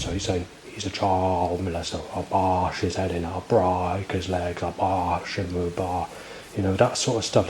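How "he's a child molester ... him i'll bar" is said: imitated posh accent, long drawn-out "ah" vowels; mock posh accent. Mimicking threats heard from outside, mock posh accent. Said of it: "bringing that R out in that sort of posh accent".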